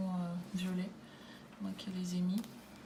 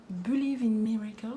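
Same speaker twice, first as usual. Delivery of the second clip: English title read with a French accent, a bit louder; 2 semitones higher, 7 dB louder than usual. Real, not acted. Présente l'album à ses abonnés, titre anglais avec accent français. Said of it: "J'ai un très bel accent anglais".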